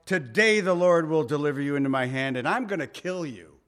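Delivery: loud, bold declaration; David shouting back at Goliath; yelling. Retold or imitated. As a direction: shout it across the battlefield. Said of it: "David yells".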